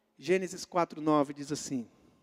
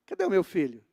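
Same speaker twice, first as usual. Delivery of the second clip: wrong version, laughing; faster than usual. Pretend. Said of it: "Ele não falou assim".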